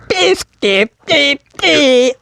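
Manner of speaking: high British caricature, spitting the B's; high, plosive-heavy silly British accent; mock British spitting. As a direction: pop each B in a squeaky British voice. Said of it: "spitting with their bees".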